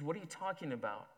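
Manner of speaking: lost, blank confusion; bewildered. Acted. Judah asks Zacchaeus, bewildered. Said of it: "stony bewilderment".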